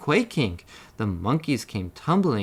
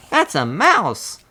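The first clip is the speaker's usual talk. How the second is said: panicked; 6 semitones higher, 6 dB louder than usual. A narrator's reading. Elephant panics at the mouse.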